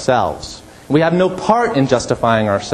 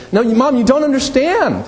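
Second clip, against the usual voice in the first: put-on high pleading kid protesting to Mom; whiny child; 12 semitones higher than usual. Child self-justifying to Mom when told off, higher whiny protest. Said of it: "to say".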